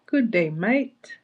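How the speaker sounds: slow, drawn-out mock Aussie greeting; imitated Australian accent. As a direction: have a go at an Australian accent, slowly. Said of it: "My accent imitation".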